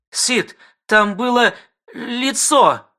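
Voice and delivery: slow, high horrified telling. Acted. Wife tells Sid of the face, slow and high. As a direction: drag it out in horror. Испуганная жена.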